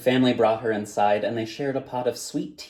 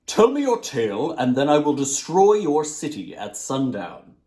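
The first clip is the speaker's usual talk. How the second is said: louder, lightly voiced djinn order; djinn demands; 3 semitones higher, 5 dB louder than usual. Djinn at the gate demands the tale, slightly louder.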